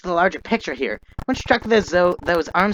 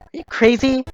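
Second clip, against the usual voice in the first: loud disbelief at a friend; indignant shout; 8 semitones higher, 6 dB louder than usual. Acted. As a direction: shout it, shocked and outraged. Upset a dart was used.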